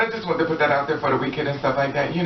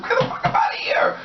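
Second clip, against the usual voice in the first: strained squealed mock scream. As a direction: squeal it like an acted meltdown. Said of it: "you start screaming".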